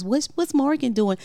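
a hint of gushing listeners; imitating curious fans. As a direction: lightly imitate fans pestering with questions. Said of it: "so people can stop asking us".

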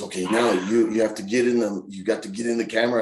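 lightly voiced coach; slightly pushy friend giving instructions; Fale. Impersonating his wrestler friend coaching him for camera, insistent. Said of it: "this is my best Fale impersonation".

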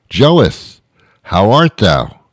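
a hint of a pompous Elizabethan greeting; pompous Shakespearean. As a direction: lightly put on old-English grandeur. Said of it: "I think they talk like that".

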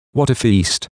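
lively exclaim, pitch up; excited cry. Acted. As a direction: call it out with delight. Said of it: "cried one of the guests".

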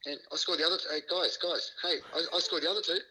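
high, pleading mock whine for attention; hammed-up plea to be remembered; mock protest. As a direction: wave your arms, nobody's listening. He mock-protests about his own tries.

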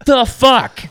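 retold incredulous outburst. Podcaster retelling her reaction to the fundraiser, incredulous. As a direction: blurt it in high, loud disbelief.

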